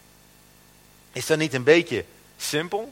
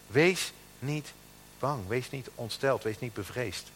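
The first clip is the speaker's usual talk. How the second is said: scripture reading. Acted. Preacher proclaiming David's words to Solomon, strong then hushed. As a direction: proclaim it strongly, then let it fall to a hush.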